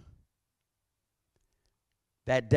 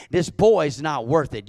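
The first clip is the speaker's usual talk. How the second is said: put-on same words pushed louder with weight on boy; This boy is not worth it, louder and firmer; louder repeat; 3 semitones higher, 6 dB louder than usual. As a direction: press harder the second time. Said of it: "I reminded her".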